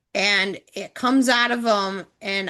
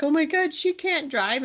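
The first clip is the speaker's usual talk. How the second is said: higher-pitched mock panic; mild alarm, pitched up in the retelling; retold freak-out; 5 semitones higher than usual. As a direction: lightly imitate someone freaking out. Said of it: "he's freaking out".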